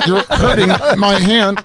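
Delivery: a light laughing cry of pain; a half-laughing complaint of being hurt; mock pained plea. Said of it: "It was originally".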